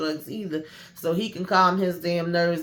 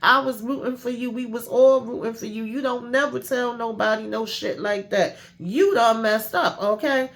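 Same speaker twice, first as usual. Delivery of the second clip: mock outraged girlfriend; dramatic scolding; 6 semitones higher than usual. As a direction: scold her like she blew the secret. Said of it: "Priscilla was like".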